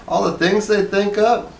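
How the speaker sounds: high, envious wife voice; a little envious. A narrator's reading. Wife envying her husband's noises, high and wistful. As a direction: pitch it up with wistful envy. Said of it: "a little envious".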